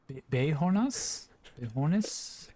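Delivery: unsure stab at "Bejonas", questioning; botched French pronunciation. Real, not acted. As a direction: sound out "Bejonas? Bejones?" doubtfully, English-style. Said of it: "my butchering of French pronunciation".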